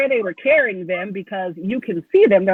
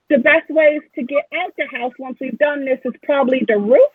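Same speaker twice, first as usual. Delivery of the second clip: higher-pitched halfling crew boss briefing the team; Joy; 6 semitones higher than usual. Acted. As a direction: lay out the heist as a halfling, pitched up. Game master plays Joy laying out heist.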